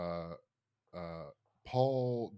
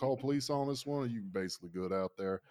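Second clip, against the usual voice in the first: a hint of put-on Southern; fake Southern accent; 2 semitones higher, faster than usual. Alarm operator offering police, light fake Southern accent. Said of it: "doing a fake Southern accent".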